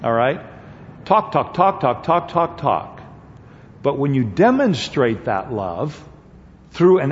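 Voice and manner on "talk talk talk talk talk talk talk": high, rapid-fire repeated "talk"; dismissive chatter. Acted. Preacher mocking cheap talk to the congregation, dismissive chatter. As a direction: rattle it off like empty chatter.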